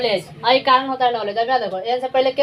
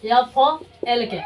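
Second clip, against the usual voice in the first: slow spelling out; slower than usual. Shown as a demonstration. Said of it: "के से पहले एल silent".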